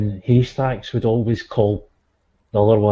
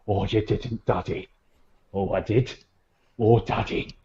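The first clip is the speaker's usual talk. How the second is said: soft mock shock; 3 semitones lower, 6 dB quieter than usual. Haystacks reacting to Daddy.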